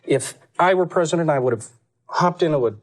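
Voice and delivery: lightly voiced Dukakis, earnest campaign tone; a hint of Dukakis making his pitch; Dukakis impression. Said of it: "still do Dukakis".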